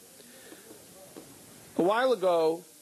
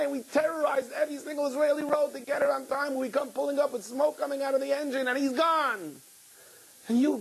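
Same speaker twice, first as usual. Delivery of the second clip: much higher, fervent talk to God; impassioned outpouring; 8 semitones higher than usual. Retold or imitated. Father telling God his frantic ride, high and fervent. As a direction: pour it out, pitch high and rising.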